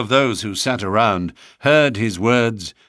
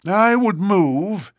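put-on raised, slow old man's voice; old greybeard voice; 11 semitones higher, 4 dB louder, slower than usual. A narrator's reading. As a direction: speak as a stiff old greybeard.

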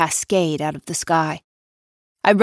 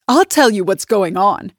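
louder, gloating reveal; triumphant announcement; 3 semitones higher, 6 dB louder than usual. Acted. Nina gloating to her husband, louder and triumphant. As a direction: announce it like a victory. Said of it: "she announces triumphantly".

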